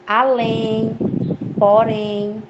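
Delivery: ALÉM and PORÉM with long, held endings; stress on last syllable. Shown as a demonstration. Teacher lists oxytone examples for students, drawing out the endings of ALÉM and PORÉM. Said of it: "a sílaba tônica é a última".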